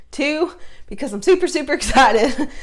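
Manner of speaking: breathless excitement breaking into a laugh; can barely contain the excitement; super excited. Real, not acted.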